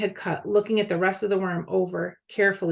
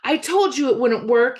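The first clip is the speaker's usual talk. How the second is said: screamed; 5 semitones higher, 5 dB louder than usual. A narrator's reading. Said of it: "he screamed at Joe".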